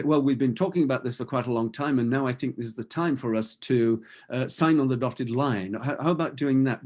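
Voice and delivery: fast, pushy rattle with no breathing room; rushed machine-gun pitch. Shown as a demonstration. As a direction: fire the words off like a machine gun to rush the close. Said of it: "That's, that's kind of very machine gun-like".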